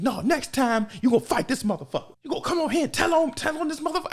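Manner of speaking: high, bossy scolding; retold high scolding mother; scolding mom. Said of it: "They was like".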